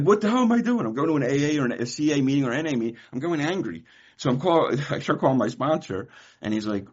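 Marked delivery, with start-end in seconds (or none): 0.0-3.8 exasperated rant. Retold or imitated. Retelling his angry inner rant.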